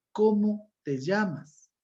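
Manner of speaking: slow question, CÓMO held high; direct question. Shown as a demonstration. Teacher gives class an example of a direct question. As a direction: draw out "cómo te llamas" as a clear question. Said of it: "formulan preguntas de modo directo. Ejemplo".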